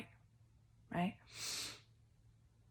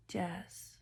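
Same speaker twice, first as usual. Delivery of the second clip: psychic whisper; 5 dB quieter than usual. Acted. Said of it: "just got a download".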